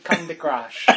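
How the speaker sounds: put-on Filipino mother's accent, deadpan. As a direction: answer like a Filipino auntie. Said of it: "now we're going to accents".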